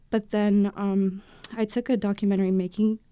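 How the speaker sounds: winded from running; talking while catching breath. Real, not acted. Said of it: "Sorry, I'm out of breath".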